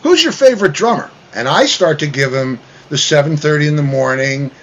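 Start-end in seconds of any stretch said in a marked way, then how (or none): 0.0-1.1 imitating Howard. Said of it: "And so he goes".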